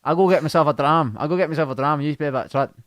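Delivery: put-on accented announcement; lightly voiced impression; Martin Gillespie. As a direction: announce it as the muddled bandmate. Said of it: "Martin Gillespie".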